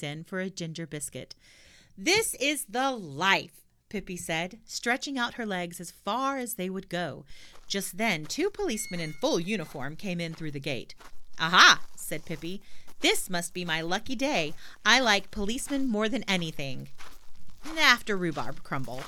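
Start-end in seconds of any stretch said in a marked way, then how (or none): 2.0-3.6 put-on high, slow contented sigh of a girl; lightly voiced lively girl; cheerful girl voice. Pippi voiced in story. 11.4-11.8 put-on loud gleeful girl's exclamation; delighted girl voice. Pippi spots policemen. 13.0-19.0 put-on louder, playful little girl; lightly voiced cheeky girl. Pippi voiced in story.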